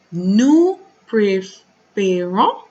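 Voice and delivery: Nous préférons stretched out very slowly, each syllable drawn apart; slow, deliberate teaching demo of Nous préférons; slow syllable-by-syllable model. Shown as a demonstration. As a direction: spell it out slowly for the class. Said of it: "teacher models then repeats".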